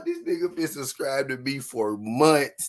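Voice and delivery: half laughing, half whining; laughing through it. Real, not acted. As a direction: recover from laughing and push the line out. Laughing after word break.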